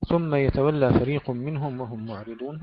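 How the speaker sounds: measured tajweed recitation of the verse; Quran recitation. Shown as a demonstration.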